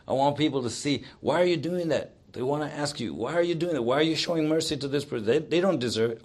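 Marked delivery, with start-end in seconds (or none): 1.2-2.1 puzzled challenge. Acted. Voices puzzled people questioning mercy. 3.1-6.2 puzzled challenge. Acted. Voices puzzled people questioning mercy.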